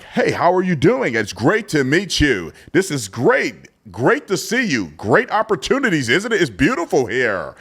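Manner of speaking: mock schmoozing politician, high and slow; imitating a slick politician's canned hello; rehearsed politician voice. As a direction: ham up a fake, rehearsed greeting like an actor. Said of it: "they like, uh, actors".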